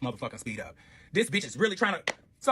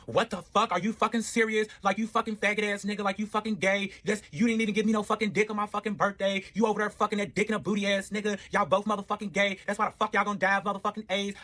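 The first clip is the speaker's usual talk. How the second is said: higher, heated imitation of the ex; mock angry rant; 4 semitones higher than usual. Ex blowing up his phone, mock furious rant. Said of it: "She's like".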